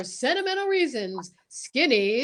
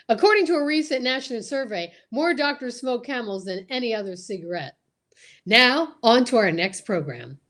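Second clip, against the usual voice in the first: brisk radio sponsor read; announcer ad read; 3 semitones lower than usual. Acted. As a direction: rattle it off like an ad. Announcer reading the ad.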